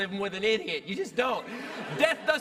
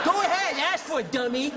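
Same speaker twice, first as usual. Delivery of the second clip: loud, high jeering taunt; mocking taunt; 4 semitones higher, 4 dB louder than usual. Inner voice mocking him for wanting a raise, loud jeering. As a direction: sneer it out, egging him on.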